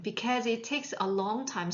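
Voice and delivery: very slow, careful English; slow model reading. Shown as a demonstration. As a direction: read slowly for students to copy. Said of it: "teacher model reading".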